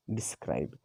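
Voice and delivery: describe, first syllable quick, second held; stress on second syllable. Shown as a demonstration. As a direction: describe with a brief de and a long, weighted scribe. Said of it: "जोर देकर बोलना पड़ रहा है".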